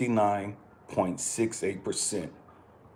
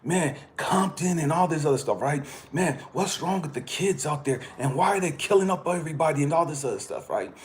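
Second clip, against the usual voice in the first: higher, excited mock New Yorker; imitating the gym guy; 6 semitones higher than usual. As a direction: play the gym guy going on about California. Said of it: "And he said".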